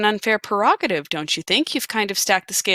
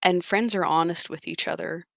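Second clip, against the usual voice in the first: moment of severity; 4 dB quieter than usual. Acted. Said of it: "having a moment of severity".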